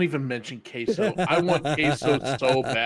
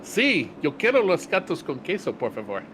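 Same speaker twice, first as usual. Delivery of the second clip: mock Spanish; 4 semitones higher than usual. Shown as a demonstration. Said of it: "I'm also studying Spanish".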